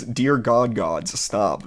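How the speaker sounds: breaking into real laughter mid-line, slowly; laughing. Real, not acted. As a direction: giggle through the words. Laughing through read character line.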